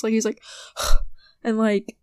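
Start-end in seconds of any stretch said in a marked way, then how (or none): 0.5-1.1 mock huff. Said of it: "he literally huffs".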